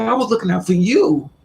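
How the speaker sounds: high-pitched, aggrieved insistence; retold hurt protest, pitched high; indignant protest. Acted quarrel, defending herself.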